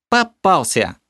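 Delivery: high, ringing triumphant cry; gotcha, with glee. A narrator's reading. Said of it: "голос торжествующе закончил". (торжествующе)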